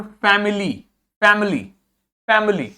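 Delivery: "फैमिली" with weak middle vowel and full ee ending; full final y, half middle. Shown as a demonstration. Teacher drilling the schwa, "फैमिली" with reduced middle vowel. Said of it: "वाई को तो पूरा बोल रहे हैं".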